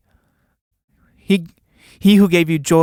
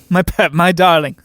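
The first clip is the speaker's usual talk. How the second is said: fond laugh; 4 dB louder than usual. Acted. Father greets daughter fondly.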